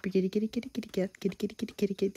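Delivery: softly calling kitty; soft cat call. Real, not acted. Speaker softly cooing to the kitty cat. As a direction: coo the cat's name quietly.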